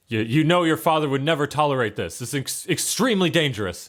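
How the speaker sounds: a hint of an alarmed guard; guard warning prince. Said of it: "He's like".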